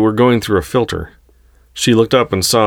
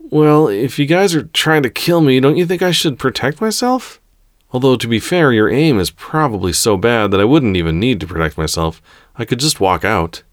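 put-on cheeky young heroine; 6 semitones higher than usual. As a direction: needle your captors with mock reasonableness. Heroine taunts her captors.

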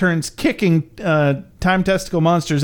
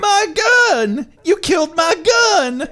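high-pitched, hammed-up crying shout; mock anguished wail; 13 semitones higher, slower than usual. Monster sees his gun run over, mock anguished wail. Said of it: "Testicle Time Monster yells".

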